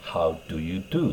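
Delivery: lightly voiced, slow proper English greeting; a touch of prim British lady; a hint of prim Eliza. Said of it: "イライザが". (上品な英国風の挨拶を軽く真似て)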